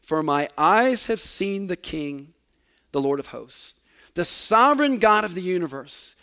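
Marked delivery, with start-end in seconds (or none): 0.0-3.8 slow, clear reading. Shown as a demonstration. Preacher quoting Isaiah to the congregation, slow and clear. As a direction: lay each word down slowly and clearly. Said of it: "he says very clearly".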